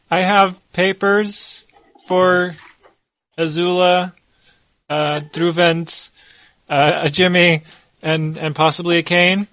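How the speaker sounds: lightly voiced timid messenger boy; hesitant small boy. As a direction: recite the list uncertainly, pausing between names. Small boy nervously delivers his message.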